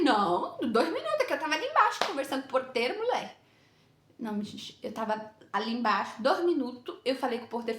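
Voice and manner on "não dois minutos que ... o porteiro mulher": higher, protesting self-defence; retold defensive excuse. Latecomer excusing herself to the woman, mock defensive. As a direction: hurriedly talk your way out of blame.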